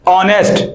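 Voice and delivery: ऑनेस्ट with no h sound, starting on the vowel "aw"; silent h. Shown as a demonstration. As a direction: say ऑनेस्ट as "onest", the h dropped. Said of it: "क्या पढ़ते हैं?". (ऑनेस्ट, एच बिल्कुल नहीं बोलना)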